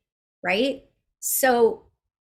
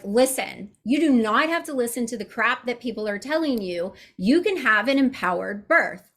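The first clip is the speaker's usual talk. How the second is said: my real voice. Shown as a demonstration. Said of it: "That's me".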